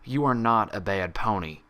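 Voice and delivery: calm firm declaration; certain. Acted. Applejack assuring Pinkie, certain and steady. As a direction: say it like sacred law. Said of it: "the confidence in her tone".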